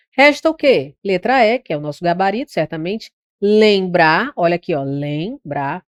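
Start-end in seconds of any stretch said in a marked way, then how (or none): 3.4-4.3 LEMBRAR split into a held nasal "lẽ" and "brar"; dígrafo vocálico demonstrado. Shown as a demonstration. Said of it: "ele tem um som de E". 4.8-5.8 LEMBRAR softer, broken as nasal "lẽ", then "brar"; dígrafo vocálico demonstrado. Shown as a demonstration. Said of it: "ele tem um som de E".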